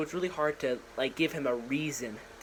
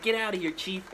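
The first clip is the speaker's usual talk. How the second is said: gruff order; 6 semitones higher than usual. Retold or imitated. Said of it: "And he's like".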